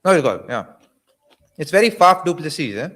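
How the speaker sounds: talking through a mouthful of chips; crunching chips. Real, not acted. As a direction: chew and talk at once, mouth full. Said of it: "Can you hear me crunch?".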